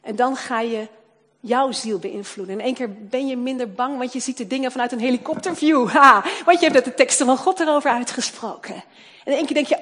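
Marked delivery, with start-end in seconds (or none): 2.6-9.8 fast, loud building sermon; rising preaching fervour. Acted. Preacher telling believers they feel less afraid, fast and fervent. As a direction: sweep them up in it.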